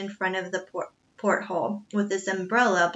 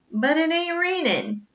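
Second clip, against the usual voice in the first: incredulous cook; 8 semitones higher than usual. A narrator's reading. Cook objects to umbrella.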